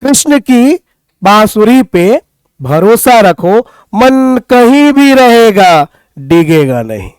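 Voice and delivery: measured verse with pauses between phrases; poem recital. Acted. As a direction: deliver each phrase as verse. Recites a Krishna line.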